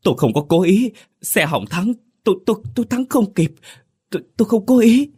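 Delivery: very high, fast stammering cry; panicked wailing plea. A narrator's reading. Driver kneeling in the road begging the crowd, panicked. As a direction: stutter out excuses in terror. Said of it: "Hắn ôm đầu gào rú".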